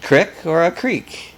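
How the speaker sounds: CRICK with a short vowel, then CREEK with a long ee; crick versus creek. Shown as a demonstration. Contrasts two regional pronunciations.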